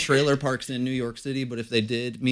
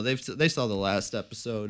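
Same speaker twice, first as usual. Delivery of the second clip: ordinary talk, nothing marked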